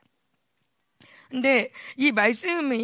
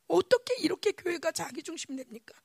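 whispered lament; 2 semitones higher, 5 dB quieter than usual. Retold or imitated. Lament prayer continued.

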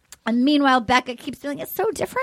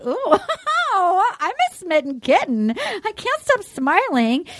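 mock smitten; 4 semitones higher than usual. Quoting a smitten contestant.

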